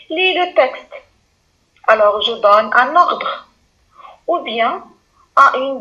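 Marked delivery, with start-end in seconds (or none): 0.1-0.9 Lis le texte said as a firm classroom command; a teacher's order, pitched up; giving an order. Shown as a demonstration. Teacher voicing an order to a pupil, firm command. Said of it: "en classe qui sont dit".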